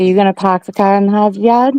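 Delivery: fast Boston "pahk the cah"; Boston accent, R's dropped. Shown as a demonstration. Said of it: "love a good Boston accent".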